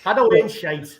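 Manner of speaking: light mock Geordie accent. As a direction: toss off a playful Geordie greeting. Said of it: "Your Geordie accent got a thumbs up".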